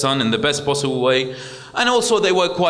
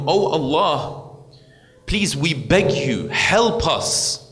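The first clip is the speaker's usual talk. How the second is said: a hammed-up anxious parent begging God; imitating begging prayer; 4 semitones higher than usual. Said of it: "they start begging Allah".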